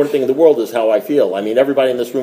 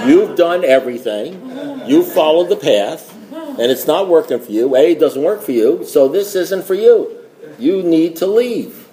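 mock seriousness. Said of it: "we cruelly toy with newcomers".

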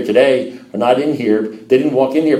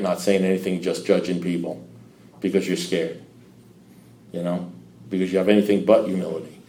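quiet; 5 semitones lower, 7 dB quieter than usual. Real, not acted. Describing sitting quiet, judging.

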